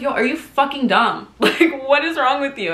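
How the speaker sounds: high, exasperated challenge with a laugh; mock-harsh self-talk; retold self-scolding. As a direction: tell yourself off, playing it up. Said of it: "talk to myself like that".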